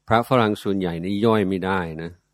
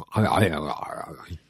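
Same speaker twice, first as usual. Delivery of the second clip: garbled toothless gibberish, mimicking an old teacher; imitated unintelligible mumble. Monk imitates his teacher talking with dentures out, mock garbled mumbling. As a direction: mumble a run of vowels like someone without dentures. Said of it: "ฟังไม่รู้เรื่องเนาะ".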